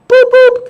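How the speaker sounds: two high, loud beeps; high-pitched double toot=; error beep. Retold or imitated. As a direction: imitate a machine's error alert. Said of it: "that's the error message".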